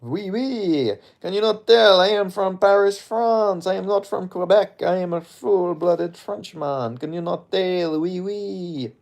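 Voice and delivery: high, hammed-up French accent; drawn-out, theatrical Frenchman's French accent. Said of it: "that's me doing a French accent".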